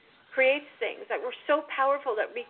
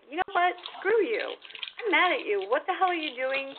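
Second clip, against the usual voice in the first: angry at God. Retold or imitated. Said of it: "I got so mad at God, and I was like".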